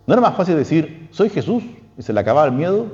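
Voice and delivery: lifted, wondering question; high rhetorical question. Acted. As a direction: pitch climbs up on Soy Jesús.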